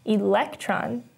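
"electron" with the weight on "lec"; stress on second syllable. Shown as a demonstration. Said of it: "has the second syllable stressed".

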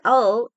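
one-syllable "oh" instead of two words; reduced "I will". Shown as a demonstration. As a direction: punch out "oh" for contracted I'll. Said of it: "es la reducción de I will".

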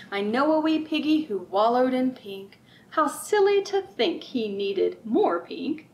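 sing-song picture book read-aloud; lilting, rhythmic storybook voice; reading to children. Acted. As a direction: read it like storytime for little ones.

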